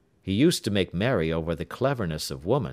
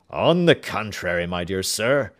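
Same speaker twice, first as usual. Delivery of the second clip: louder eager protest; a louder, eager king; crying out; 6 dB louder than usual. Acted. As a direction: cry out in happy objection. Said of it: "cried the king".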